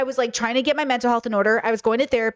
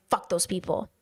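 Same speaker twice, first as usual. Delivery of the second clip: drained echo; 4 semitones lower, 7 dB quieter than usual. Retold or imitated. Echoing roommate, drained and quiet.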